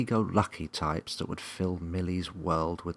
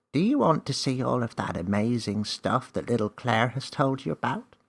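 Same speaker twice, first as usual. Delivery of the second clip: higher, louder enticing elf; playful elf; 6 semitones higher, 6 dB louder than usual. A narrator's reading. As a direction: tempt her gently.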